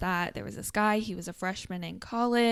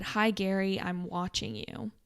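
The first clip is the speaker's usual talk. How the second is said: robot voice. Retold or imitated. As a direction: drone it like a computer. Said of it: "automated kind of sounding".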